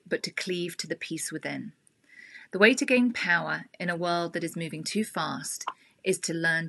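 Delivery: calm inspirational reading; reading aloud. Acted. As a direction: read it gently like a meditation, fading to a whisper. Reads a spiritual passage aloud.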